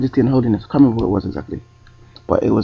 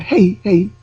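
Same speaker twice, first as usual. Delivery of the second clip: put-on European accent; 8 semitones higher than usual. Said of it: "try and do an accent".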